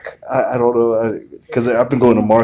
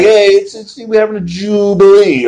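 teasing imitation; 6 semitones higher than usual. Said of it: "Like, you'll do that".

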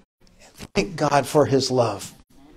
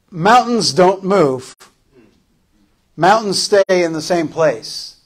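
voice of fear. Acted. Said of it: "the fear would say".

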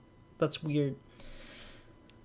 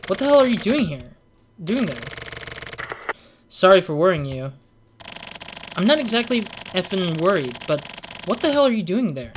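annoyed character; 4 semitones higher than usual. Acted. Reads annoyed character lines.

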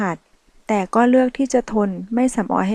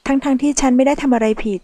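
hurt complaint, pitched higher; reproachful; 4 semitones higher than usual. Acted. Michelle reproaching the man who left her, hurt. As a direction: plead your innocence, aggrieved. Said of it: "มิเชลตัดพ้อ".

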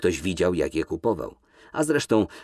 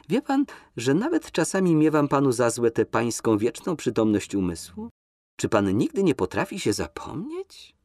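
higher, lilting flirtatious lady; coquettish Nina; 4 semitones higher than usual. Acted. Nina teases Kolski in the limousine, high and coquettish. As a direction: lift her voice, coy and teasing.

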